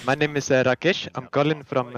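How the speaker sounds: put-on a light, half-hearted Indian accent. Prank-caller bit for the streamer, mild Indian accent. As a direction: play the Indian scam caller, only lightly. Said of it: "I wanted to try an Indian accent".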